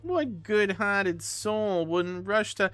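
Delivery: voicing him in a lilting Irish accent, high and slow; a pleading Irish fella asking the court; Irish brogue, earnest and a bit hammed-up. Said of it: "this guy's Irish".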